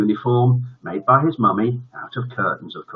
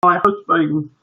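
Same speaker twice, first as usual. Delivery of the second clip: bursting into tears; 9 semitones higher, 4 dB louder than usual. Acted. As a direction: blubber with overflowing adoration. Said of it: "would burst into floods of tears".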